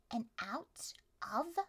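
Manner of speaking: slow suspense whisper. Acted. GM whispering slowly to the players in suspense.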